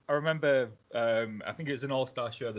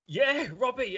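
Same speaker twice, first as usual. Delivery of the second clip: retold starstruck fan, pitched way up; awestruck; 13 semitones higher, slower than usual. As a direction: squeak it out like an overawed young fan. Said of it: "I was, like, awestruck".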